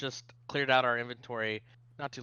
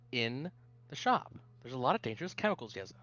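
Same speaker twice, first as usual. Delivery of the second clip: scolding parent; 3 semitones higher, faster than usual. Acted. Shopkeeper warns their kid about chemicals, mildly scolding. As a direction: ease from the yell into a mild lecture. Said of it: "And Elijah says".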